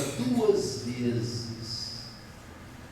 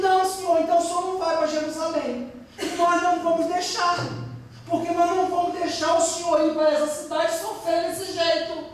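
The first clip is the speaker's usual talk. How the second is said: high-pitched, insistent retold plea; acted protest; 10 semitones higher, faster than usual. Disciple objecting to Jesus going to Jerusalem, acted protest. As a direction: protest urgently in a raised, high voice.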